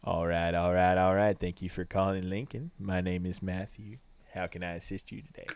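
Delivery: lightly voiced low, laid-back agent; low, easy character phone voice; drawling phone persona. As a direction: play a laid-back character taking calls.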